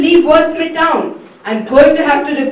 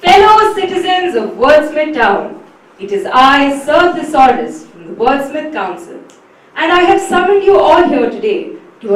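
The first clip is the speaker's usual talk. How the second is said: grand herald's announcement; formal proclamation. Acted. Sir Thesaurus announcing the town's fate, formal proclamation. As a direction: proclaim the doom to the town.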